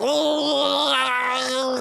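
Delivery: imitated high gurgling wail; choking wail. Playing his talking penis as he pees, high mock wail. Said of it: "and I start peeing".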